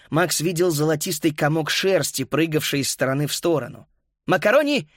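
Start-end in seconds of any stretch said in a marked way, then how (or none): 4.3-4.9 high-pitched eager call to a dog. A narrator's reading. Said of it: "позвал он".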